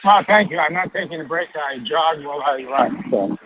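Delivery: winded, talking mid-jog; out of breath while running. Real, not acted. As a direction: puff the words out between strides. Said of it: "the mayor sounds a little winded".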